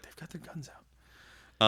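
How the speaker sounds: slow, whispered deadpan warning; monotone whisper. Retold or imitated. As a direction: hush it out slowly, no emotion. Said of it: "in a very monotone, quiet voice".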